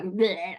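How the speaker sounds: spewed-out "bleh". Retold or imitated. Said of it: "it just spurs it out".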